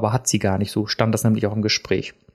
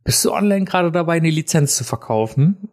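asking the stranger on the phone in a raised, fast voice; pitched up and quick, half-acted; high, fast phone question; 5 semitones higher than usual. Caller asks the seller on the phone, high and fast. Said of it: "und dann sag ich so".

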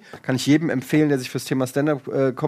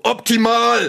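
high, bright burst with a laugh; cheeky triumphant quip; 6 semitones higher, 3 dB louder, slower than usual. Retold or imitated. Son answering his mother's question, laughing cheeky quip. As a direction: fire it back like a winning punchline. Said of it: "Und ich nur so".

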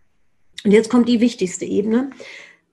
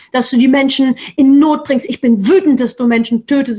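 angry declaration. Shown as a demonstration. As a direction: let the anger out, hitting "wütend" hard every time. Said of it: "das braucht Raum".

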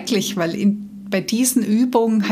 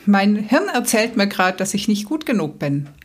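a bit playful. Acted. Coach shows listener how to step back from thoughts, a bit playfully. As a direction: point it out with playful, detached surprise. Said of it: "eher so ein bisschen spaßig sagst".

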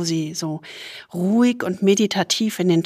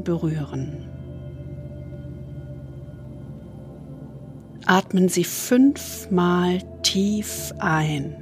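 soothing spa whisper; 4 dB quieter than usual. Acted. Leads a body scan meditation.

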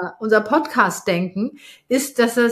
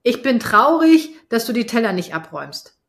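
mock sad; 3 dB louder than usual. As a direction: stretch out "traurig" in a fake sad whine. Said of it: "was meinst du denn da". (gespielt traurig, langsam und lauter)

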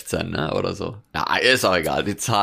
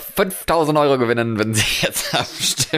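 TV ad announcer; 5 semitones higher than usual. Pretend. Parodies TV competition ad.

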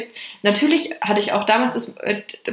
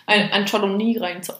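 while sipping a drink. Real, not acted. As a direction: mouth wet from a sip of wine. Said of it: "Sorry, ich muss kurz trinken".

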